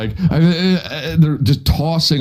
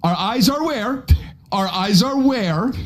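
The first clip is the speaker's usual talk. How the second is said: higher, slow, condescending explaining; mock pedantic lecture; 7 semitones higher than usual. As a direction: talk down like a smug teacher.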